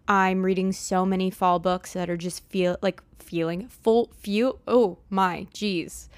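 jittery, tongue-tied from coffee; wired and tripping over words; too much caffeine. Real, not acted. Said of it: "three cups of coffee today".

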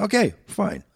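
meek giving in. Retold or imitated. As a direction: back down fast from a big guy. Meek reply to big pilot.

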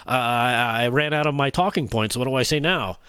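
low, halting imitation of someone stuck; mock stammering. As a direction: stall on dragged-out uhs, imitating a lost speaker. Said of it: "she started to stammer".

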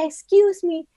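high, overpolite English request, imitated; mock overpolite. Mocking the indirect English style the Chinese don't understand, high and overpolite. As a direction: put on a dainty, roundabout politeness. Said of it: "no entienden si tú dices".

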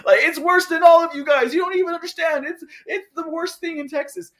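high, loud mock whine about Texas being worst; mock whiny Texan. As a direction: ham up a whining Texan who thinks their state is worst of all. Mocking Texans who say it's worse.

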